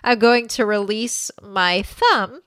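slow, instructive class voice; teacher voice. Shown as a demonstration. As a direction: lead the class slowly. Playing a yoga teacher.

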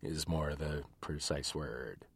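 muffled, speaking into a mug; talking into a cup. Real, not acted. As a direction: voice muffled by a teacup. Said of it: "I'm talking into my cup of tea".

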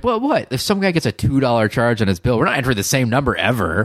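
high, disbelieving protest; incredulous. Retold or imitated. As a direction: act baffled by the fuss. Defending the prank to others.

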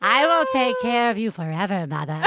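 creepy, sing-song serial killer; lightly voiced creepy serial killer. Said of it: "it sounds like a serial killer".

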